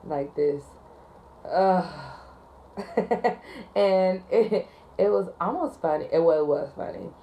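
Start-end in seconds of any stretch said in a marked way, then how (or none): 1.4-1.8 a slightly louder, exasperated sigh; imitated sigh. Rude caller sighing at the dispatcher, exasperated sigh. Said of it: "you hear this sigh, like this".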